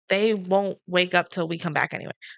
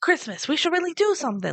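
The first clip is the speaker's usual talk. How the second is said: corrected inflection; 8 semitones higher than usual. Retold or imitated. Correcting the quoted line for a friend, steadier high mock quote. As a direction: still high, but steadier as a real sentence. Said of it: "That's not the inflection he had".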